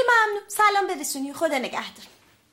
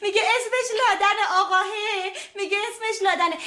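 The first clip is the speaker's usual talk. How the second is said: laughing; 4 semitones higher than usual. Real, not acted. Caller says his name is Laden.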